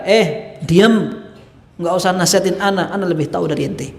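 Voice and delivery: a touch of haughty dismissal, mildly voiced; arrogant retort. Governor brushing off advice, mildly arrogant. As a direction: brush off the adviser like you know better. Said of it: "Itu orang kalau sombong tuh kayak gitu".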